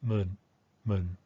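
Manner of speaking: "mun" short, one-direction simple tone; fast reduced Thai "mun". Shown as a demonstration. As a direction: clip "mun" to a quick simple tone. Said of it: "it becomes".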